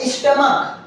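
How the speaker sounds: स्टमक with CH sounded as K; pronunciation of स्टमक. Shown as a demonstration. Teacher showing students how this is said, स्टमक with K sound. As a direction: say स्टमक ending in a hard K. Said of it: "इसको बोलते हैं".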